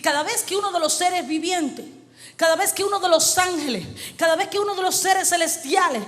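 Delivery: driving, emphatic preaching; prédica enérgica. Real, not acted. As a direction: build it phrase on phrase like a preacher. Predica a plena fuerza. (prédica enérgica, frase tras frase con insistencia)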